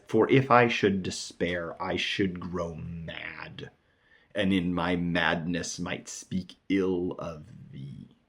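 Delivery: slow, measured verse recitation; poem reading. Acted. Teacher quoting the sonnet's threat, measured poem reading.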